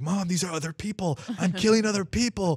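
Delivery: put-on high, loud, excited kid voice.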